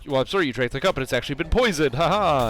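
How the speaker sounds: lightly voiced villain's reveal; gloating villain. Villain telling a guest the cup is poisoned, mock gloating. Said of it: "because he's like".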